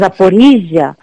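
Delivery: Zaporilla modelled the Ukrainian way; Ukrainian pronunciation. Shown as a demonstration. Guest shows a difficult name, Zaporilla said Ukrainian-style. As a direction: say Zaporilla as a native Ukrainian would. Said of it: "es muy difícil para vosotros decir".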